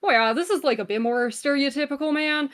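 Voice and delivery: stereotypical Canadian accent. Shown as a demonstration. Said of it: "I would probably say".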